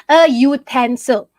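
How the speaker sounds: "a utensil" slowly, with a clear YOO start; yoo-tensil. Shown as a demonstration. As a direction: hit "a utensil" as a yoo-TEN-sil. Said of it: "It's not ute".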